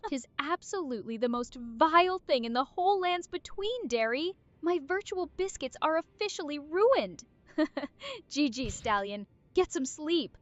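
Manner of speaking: hillbilly voice, grossed out and gagging; southern hillbilly accent. Acted. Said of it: "describe the fingers in your southern, uh, hillbilly accent".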